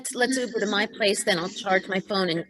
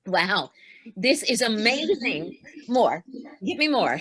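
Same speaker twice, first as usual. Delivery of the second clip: greedy; 2 semitones higher than usual. Acted. Greedy for wine.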